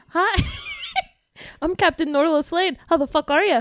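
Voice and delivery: put-on copied Norlo accent. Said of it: "supposed to copy Norlo".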